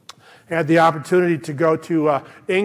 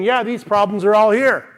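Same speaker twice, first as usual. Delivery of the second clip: higher, ringing voice of stubborn trust; raised, defiant declaration of belief; defiant faith; 4 semitones higher, 4 dB louder than usual. Retold or imitated. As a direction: proclaim it high and strong as David. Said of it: "He was saying".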